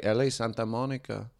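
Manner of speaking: put-on quiet Mexican-accented driver; soft-spoken Mexican accent. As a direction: imitate the cabbie's Mexican accent, softly. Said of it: "the quintessential Mexican accent".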